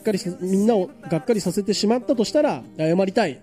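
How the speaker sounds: music news read aloud on radio. Acted. Host reporting a singer leaving his band, news read. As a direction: read it out in an even announcer manner.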